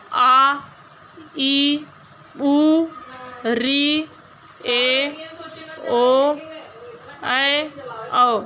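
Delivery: teacher sounding out long vowels one by one; long vowels demonstrated. Shown as a demonstration. Teacher to class, showing the long vowels, drawn out and punched. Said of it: "number दो है दीर्घ स्वर".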